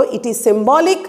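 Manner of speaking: slow, drawn out dynamic; slow read. Shown as a demonstration. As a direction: dictate slowly to the class. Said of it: "সেই জন্যই বলা হচ্ছে ভাষা হলো". (ধীরে ধীরে বলা)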